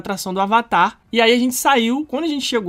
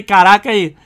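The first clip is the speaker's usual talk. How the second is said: loud, projected exclamation; staged loud amazement; 2 semitones lower, 8 dB louder, slower than usual. Retold or imitated. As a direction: call it out so she overhears. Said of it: "Falei alto, né?".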